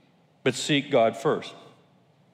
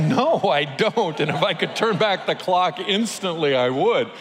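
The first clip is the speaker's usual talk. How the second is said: laughing admission; 3 semitones higher than usual. Real, not acted. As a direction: confess it through a laugh. Laughing reply to son.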